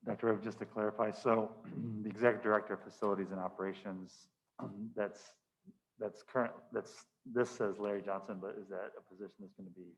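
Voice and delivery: muffled. Real, not acted. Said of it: "you're muffled".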